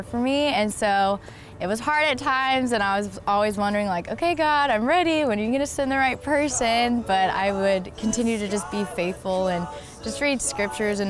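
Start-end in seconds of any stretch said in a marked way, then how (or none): 4.1-7.0 higher-pitched, mildly pleading retold prayer; impatient plea. Single woman asking God for the right person, impatient plea. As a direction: imitate her own eager appeal upward.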